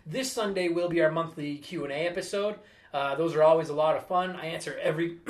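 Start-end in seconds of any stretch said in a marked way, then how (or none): 4.3-5.2 choking mid-sentence on spit; choking on saliva. Real, not acted. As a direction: catch on your own saliva. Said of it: "choking on my own saliva while I talk".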